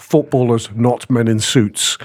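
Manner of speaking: slow and deliberate, footballers set against men in suits; emphatic stress. Real, not acted. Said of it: "I can't stress that enough".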